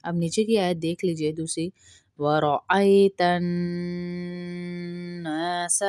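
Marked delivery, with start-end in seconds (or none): 2.2-5.8 ورأيت with a thick ر, drawn slowly; slow ورأيت الناس, heavy ر. Shown as a demonstration. Teacher recites ورأيت with heavy ر. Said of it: "را کو موٹا پڑھیں گے،".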